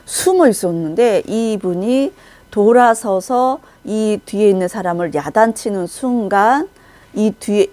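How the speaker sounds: usual speaking voice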